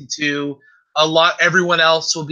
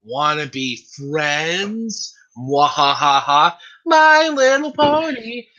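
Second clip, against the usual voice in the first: mad scientist; 2 semitones higher, slower than usual. Retold or imitated. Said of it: "And she goes".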